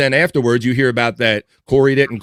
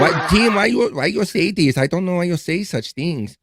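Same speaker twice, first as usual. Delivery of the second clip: higher-pitched, hammed-up Latina accent; stereotypical Latina accent; 4 semitones higher than usual. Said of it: "that's my stereotypical Latina accent".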